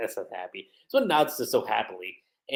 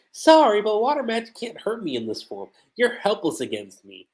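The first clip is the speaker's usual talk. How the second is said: villainous Lucy; 8 semitones higher, 3 dB louder than usual. Retold or imitated. Lucy in yokai form taunting.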